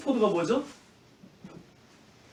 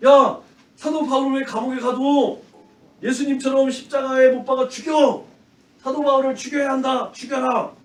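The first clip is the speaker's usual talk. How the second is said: raised, heated mob yelling; the crowd demands a killing, higher and louder; angry crowd shout; 6 semitones higher, 5 dB louder than usual. Acted. Teacher voicing the crowd calling for Paul's death, heated yell.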